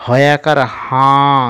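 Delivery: হাঁ said through the nose, held long; nasal vowel. Shown as a demonstration. Teacher demonstrating the nasal sign, হাঁ drawn out through the nose. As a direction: slowly spell it, ending on a nasal হাঁ. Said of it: "নাক দিয়ে একটু উচ্চারণটা করতে হবে".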